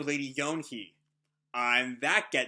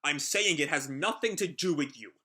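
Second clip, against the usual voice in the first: a touch louder, firm and hard; fierce; 3 dB louder than usual. Acted. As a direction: push back at her with some force. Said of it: "looks at her fiercely".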